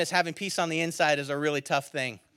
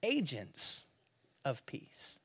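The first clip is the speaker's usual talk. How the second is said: whisper; 4 semitones lower, 10 dB quieter, much slower than usual. Real, not acted. Trailing sermon point.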